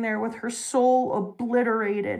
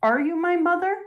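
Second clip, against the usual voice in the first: tearful; 8 semitones higher, 3 dB louder than usual. Retold or imitated. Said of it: "she cries and she goes".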